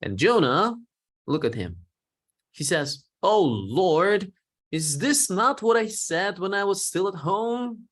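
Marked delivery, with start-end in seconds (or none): 3.2-7.9 frustrated complaint to God. Acted. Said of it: "he's pouring his frustration to God".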